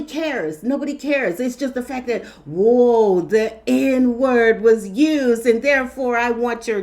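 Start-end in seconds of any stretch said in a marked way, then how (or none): 2.4-6.8 loud, slow indignant imitation; hammed-up outraged demand; mock outrage. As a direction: draw it out loudly in mock alarm.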